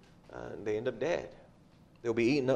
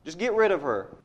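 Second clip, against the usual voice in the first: exasperated, raised complaint to get rid of her; fed-up disciples; 4 semitones higher, 4 dB louder than usual. Retold or imitated. Disciples complaining to Jesus about the shouting woman, exasperated. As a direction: voice the disciples losing patience, pushing louder. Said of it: "they're fed up with it".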